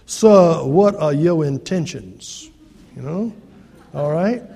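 stern father, lightly Southern; southern accent. Retold or imitated. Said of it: "It always sounds worse to me in a southern accent".

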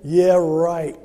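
loud scoffing yeah right; sarcastic cynic. Retold or imitated. Preacher voicing his inner cynic at a bank banner, loud sarcasm. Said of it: "the old cynic in me said".

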